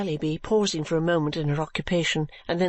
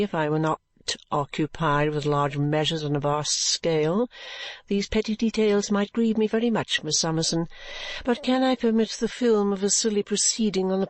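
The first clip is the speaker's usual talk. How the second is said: complacent. Acted. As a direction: brush her aside with a calm, smug certainty. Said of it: "with the greatest complacency".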